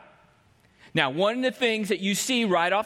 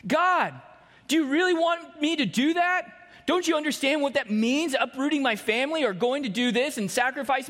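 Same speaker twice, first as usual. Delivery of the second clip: protesting believer; 4 semitones higher than usual. Retold or imitated. Voicing a believer protesting to God.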